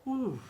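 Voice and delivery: high Uh drawn out; U sound demo. Shown as a demonstration. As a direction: model the falling U. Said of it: "é um U que cai".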